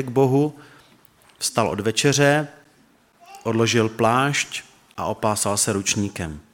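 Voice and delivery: measured, solemn reading of the gospel, voicing Peter and Jesus lightly; scripture reading. Pastor reading John thirteen to the church, solemn reading. Reads the foot washing passage.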